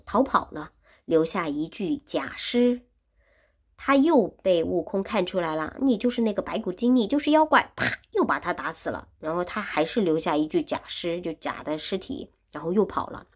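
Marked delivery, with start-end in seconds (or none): 5.8-7.7 accusing shout. Acted. Wukong exposes the demon, shouting.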